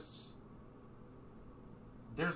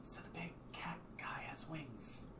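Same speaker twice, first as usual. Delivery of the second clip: amazed whisper; 6 semitones higher, 6 dB louder, much slower than usual. Acted. Josie whispering about the winged cat, amazed. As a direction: whisper it in disbelief.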